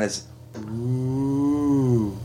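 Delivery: soft, hollow ghost oooh; ghostly wail. Shown as a demonstration. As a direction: moan it like a ghost. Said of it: "if you make a ghost sound".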